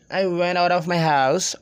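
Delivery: connected, native-style English; native English linking. Shown as a demonstration. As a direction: run the words together like a native English speaker. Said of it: "sounds like native English speakers".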